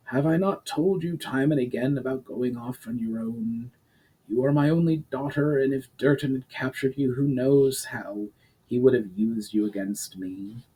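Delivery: lightly voiced stern duke, measured; a hint of a grave old lord; stern noble father. The Duke scolds his daughter.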